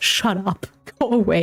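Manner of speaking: put-on angry outburst, acted-out furious reaction. Retelling own reaction to happy new york news: imitating own angry outburst. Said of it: "I'm getting angry".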